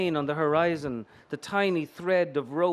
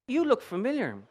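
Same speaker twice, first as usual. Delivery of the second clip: much higher, coy and flirty; all cutesy; 7 semitones higher than usual. Acted. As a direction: bat your eyelashes with the voice. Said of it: "all cutesy".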